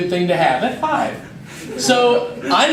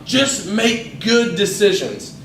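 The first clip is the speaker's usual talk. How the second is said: slow, deliberate reminder; a parent's slow reminder, just make good decisions; slow parental advice; slower than usual. Retold or imitated. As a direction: say it like a patient parent. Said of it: "we have all heard".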